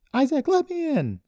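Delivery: high, loud yelled demand; furious yell. A narrator's reading. Daughter pounding on the suspect's door, yelling. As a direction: yell to be let in. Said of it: "she yelled as she pounded".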